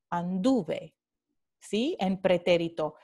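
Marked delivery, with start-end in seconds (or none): 0.1-0.9 anduve with a measured stress on DU; stress on the root. Shown as a demonstration. Teacher repeating the strong preterite for students, anduve stressed on DU. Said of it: "y se pronuncia anduve".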